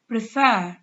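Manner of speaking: "prefer" stressed on its second syllable. Shown as a demonstration. Teacher showing learners where the stress is, second-syllable stress on "prefer". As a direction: say "prefer" with the weight on "-fer". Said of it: "the stress is on the second syllable".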